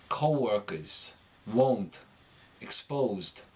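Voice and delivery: New York long O gliding from "uh" into "oh" in "Co-workers, won't, exposed"; New York accent demo, drawn-out O in "Co-workers". Shown as a demonstration. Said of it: "becomes uh-oh, oh".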